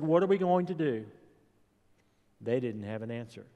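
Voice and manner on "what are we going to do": worried disciples. Retold or imitated. Panicked disciples voiced in story.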